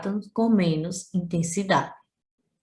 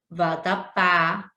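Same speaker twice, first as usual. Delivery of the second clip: vatapá dito devagar, com força no pá final; vatapá, devagar, tônica no pá; slow example word; much slower than usual. Shown as a demonstration. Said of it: "exemplos de palavras oxítonas". (vatapá pausado, sílaba pá mais forte)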